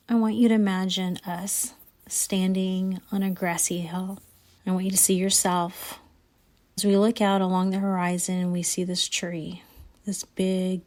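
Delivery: calm, steady guided imagery voice; guided visualization. Acted. Host guiding listeners through imagined orchard, guided visualization. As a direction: lead them gently up the hill in their mind.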